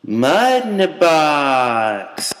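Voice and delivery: slow, low announcer tag; deep ad tagline. Acted.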